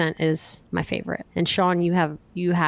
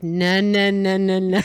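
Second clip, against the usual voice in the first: imitated Delco accent; slower than usual. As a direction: mimic doing the Delco accent on no. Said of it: "I was doing the accent".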